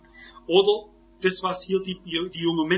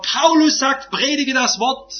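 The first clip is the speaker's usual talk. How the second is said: raised, slow, emphatic scripture quote; forceful preaching; 6 semitones higher, 6 dB louder, slower than usual. Real, not acted. Preacher quoting Paul to the congregation, forceful emphatic preaching. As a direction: proclaim it slowly and loudly from the pulpit.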